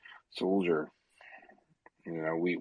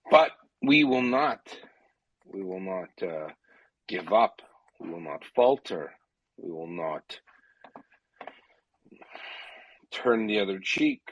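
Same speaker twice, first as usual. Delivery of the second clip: loud, defiant vow; rally the crowd, full force; roaring rallying speech; 5 dB louder than usual. Real, not acted. Defiant pledge for Ukraine.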